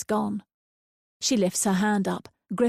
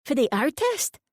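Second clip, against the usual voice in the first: put-on high, sniffy old lady, as if a dirty word; disdainful; 7 semitones higher than usual. A narrator's reading. Old lady judging Lucy's employer, disdainful. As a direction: curl your lip at artist. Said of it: "makes it sound like a dirty word".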